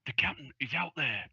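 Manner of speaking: mildly excited report; a touch of eager news-breaking; excitedly. Acted. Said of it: "And then, excitedly".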